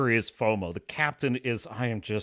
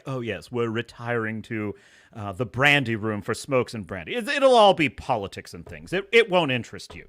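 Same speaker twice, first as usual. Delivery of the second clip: condescending sneer; 4 semitones lower than usual. Retold or imitated. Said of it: "looking down his nose at him".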